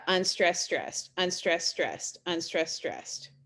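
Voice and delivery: "unstressed, stressed" chanted in even pairs, falling away; iambic rhythm. Shown as a demonstration. Teacher showing how an iamb goes, "unstressed, stressed" in measured rhythmic pairs. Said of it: "so an I am goes".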